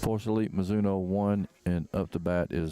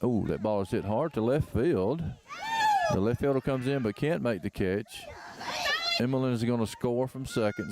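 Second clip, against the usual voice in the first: excited call; 4 semitones higher than usual. Real, not acted. Big hit in live commentary.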